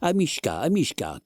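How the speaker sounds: high, anxious calling for the pet. A narrator's reading. Lady calling frantically for her dog. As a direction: call the lost dog in alarm. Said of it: "cria la dame".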